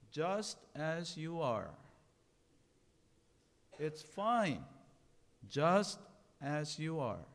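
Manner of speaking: loud, measured reassurance; firm, clear voice. A narrator's reading. Owl comforting the crying bluebird, firm clear voice. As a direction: say it firmly, slowly, with weight on each word. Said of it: "in a firm, yet beautifully clear voice".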